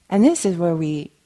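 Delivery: ordinary delivery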